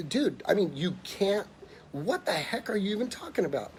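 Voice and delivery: retold disbelief at a baffling phone call; freaking out. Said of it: "I'm freaking out".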